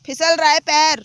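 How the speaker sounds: sudden loud alarmed cry; startled cry. Real, not acted. Slipping on the steep slope, a loud startled cry. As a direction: yelp as the foot slides.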